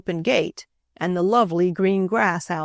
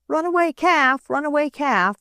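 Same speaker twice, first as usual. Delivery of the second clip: calling out; 8 semitones higher than usual. A narrator's reading. Boys calling about the runaway calf, high. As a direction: shout it down the road. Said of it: "called the boys".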